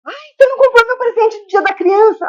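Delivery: put-on high-pitched child pestering a parent; complaining child. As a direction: voice a kid's high plaintive demand. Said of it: "Ah, o filho".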